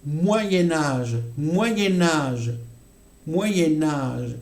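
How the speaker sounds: "Moyen Âge" linked with an n; liaison demo. Shown as a demonstration. Teacher showing students the liaison in "Moyen Âge". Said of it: "Ici, on entendra".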